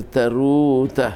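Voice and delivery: slow, stretched last syllable in תרו; מלרע stress. Shown as a demonstration. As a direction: draw out תרו as ta-RUU. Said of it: "על פי רוב תבוא מלרע". (תרו לאט, בהטעמת ההברה האחרונה)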